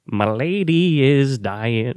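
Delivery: very slow, put-on old-time stage croon; an old-time singer. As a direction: ham it up like a blackface-era vaudevillian. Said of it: "and he would just be like".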